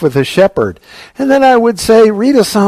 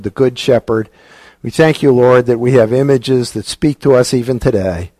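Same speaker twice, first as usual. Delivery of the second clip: closing prayer; 3 semitones lower than usual. Acted. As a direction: pray humbly, letting each phrase settle.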